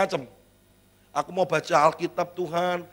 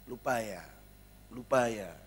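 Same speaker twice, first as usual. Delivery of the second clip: put-on teasing child; 7 semitones lower, 9 dB quieter than usual. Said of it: "anak itu bisa nyindir".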